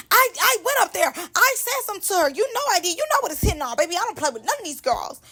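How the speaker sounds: high-pitched mock attitude; Ferrari. Vlogger mimicking a host insisting she checked on someone, high sassy attitude. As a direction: imitate her sassy, indignant energy. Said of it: "that was her attitude".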